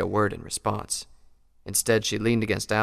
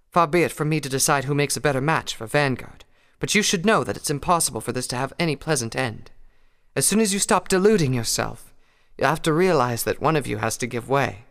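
higher, lilting mare voice; Rarity voice; 5 semitones higher, 5 dB louder than usual. Acted. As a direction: voice Rarity with gentle concern. Rarity lectures Applejack.

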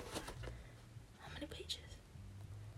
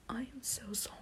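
giggly apology; 3 dB quieter than usual. Real, not acted. Giggling apology before attempting the accent.

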